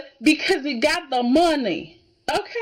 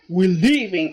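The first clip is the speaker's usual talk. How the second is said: mock upset; 2 semitones higher than usual. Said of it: "Rick was upset. He's like".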